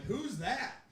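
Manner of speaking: high-pitched, baffled question; mock clueless question. Unruly bachelorette party answering the comic, mock clueless.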